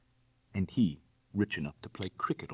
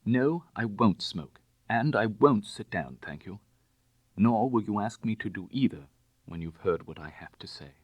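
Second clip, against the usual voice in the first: full-voiced refusal; 3 semitones higher, 4 dB louder than usual. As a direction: stand your ground, word by word. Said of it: "finding a full voice".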